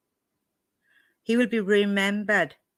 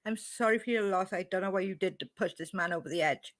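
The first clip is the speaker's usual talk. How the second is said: mocking Molly; 2 semitones higher, 7 dB quieter than usual. Mimicking Molly's fake sympathy to the viewers, snide and soft. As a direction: parrot her back with a sneer. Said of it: "Do you actually hear yourself speaking?".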